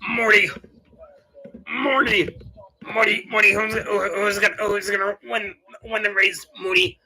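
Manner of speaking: lightly voiced stuttering cartoon grandpa; Rick. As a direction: stutter the question, repeating the name. Plays Rick asking Morty.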